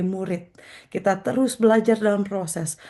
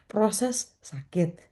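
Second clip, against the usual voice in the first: slow; 2 semitones higher, 4 dB quieter, much slower than usual. Acted. Slow drawn phrase.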